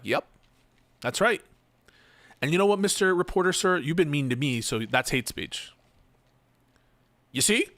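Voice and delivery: high, fast pompous impression; lightly voiced bragging boss; Rob Noir impression. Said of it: "That's my Rob Noir impression".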